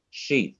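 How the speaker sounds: "sheath" said alone as the third syllable; isolated syllable. Shown as a demonstration. Teacher naming the third syllable, said on its own. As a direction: set "sheath" apart as its own beat. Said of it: "this is the third syllable".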